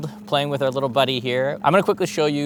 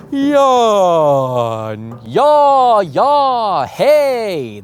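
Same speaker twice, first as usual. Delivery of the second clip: loud, open, higher yawning calls building to "hey"; projected voice; 7 semitones higher, 7 dB louder, much slower than usual. Shown as a demonstration. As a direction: project from the belly without pushing. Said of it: "that's projected".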